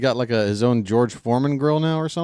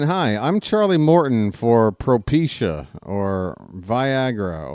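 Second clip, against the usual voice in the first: mock TV ad; 2 semitones lower, slower than usual. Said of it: "a week from now, if I'm watching".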